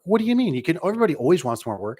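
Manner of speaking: mock disbelief from the cold caller; surprised caller. Cold caller told the company is booked up, squeaky disbelief. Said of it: "We can't take no more work".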